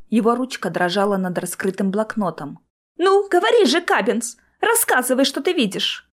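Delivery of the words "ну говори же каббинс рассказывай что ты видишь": high-pitched, urgent prodding; impatient demand. A narrator's reading. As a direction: press him eagerly for an answer. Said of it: "Джоплин нетерпеливо сглотнул". (нетерпеливое требование повышенным тоном)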